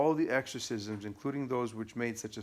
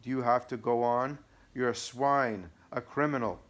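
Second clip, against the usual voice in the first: angry; 2 semitones higher, 5 dB louder than usual. Acted. Devil keeps insulting the priest.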